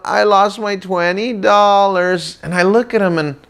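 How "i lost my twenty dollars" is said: slow, higher mournful sing-song; a child's sad chant; sad little song. Retold or imitated. Son finding his wallet empty, mournful sing-song. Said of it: "He looks all sad, and he sings that song".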